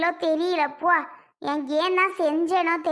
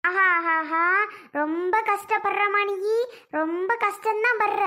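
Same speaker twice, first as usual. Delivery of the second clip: sarcastic mockery; slower than usual. Mother mocks daughter's suffering.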